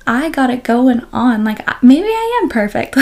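playfully cocky, pitch swooping up on maybe; mock self-assured. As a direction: lightly act out feeling perfect. Voices a wave of overconfidence.

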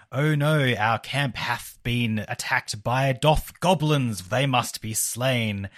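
slow, hammed-up ye olde English; mock olde fantasy hero. Podcast host mocking typical fantasy dialogue, slow and hammed-up olde English. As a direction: play it like a pompous fantasy knight. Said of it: "typical fantasy, it might be like".

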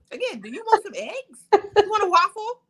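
high, laughing, mock-eager offer. Offering a lover breakfast after good sex, laughing.

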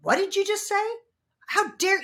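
high, loud, offended cry of disbelief; indignant outburst. Retold or imitated. Imitating her angry reaction when her partner triggers her, high and loud. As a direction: bristle at a partner's remark. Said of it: "when I'm like".

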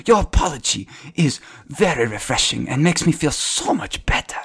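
lightly sarcastic, fading to a whisper at the end; mild sarcasm. Acted. Half-orc bows to the stranger, lightly sarcastic. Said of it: "he's being very sarcastic when he says this".

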